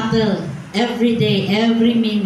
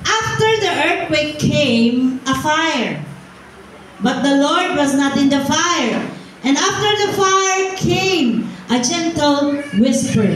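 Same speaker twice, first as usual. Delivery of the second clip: slow, emphatic public Bible reading; scripture reading; 3 semitones higher, slower than usual. Real, not acted. Preacher reading First Kings to the congregation, measured scripture reading. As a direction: read it out measured, with drawn-out key words.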